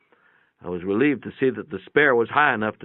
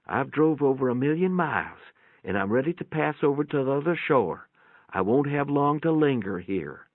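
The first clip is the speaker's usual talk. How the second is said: lightly voiced old mother, a touch higher; 5 semitones higher than usual. A narrator's reading. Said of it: "she whispered".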